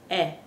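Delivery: E as a short, pure "eh"; Spanish E vowel. Shown as a demonstration. Teacher summing up the Spanish vowel, E said as "eh". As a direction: say E as "eh", as in best. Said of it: "is the pronunciation".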